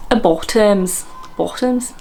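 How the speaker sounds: tentative South Wales attempt; Welsh accent. Vlogger practising a hard accent, unsure Welsh. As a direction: test the word in Welsh, questioningly. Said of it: "walk around with a Welsh accent".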